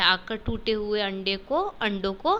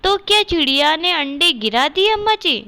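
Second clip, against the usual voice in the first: asking fearfully; 6 semitones higher, 9 dB louder than usual. Acted. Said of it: "Shyama ने डरते डरते पूछा".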